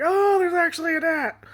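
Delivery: high, loud startled realization; imitated alarmed discovery; mock surprise. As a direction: act out spotting the bug. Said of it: "I'm like".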